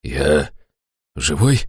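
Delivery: low, halting bewildered question; dazed disbelief at finding himself alive; surprised. A narrator's reading. Fat man coming to his senses, surprised. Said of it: "нахмурился с удивлением и радостью".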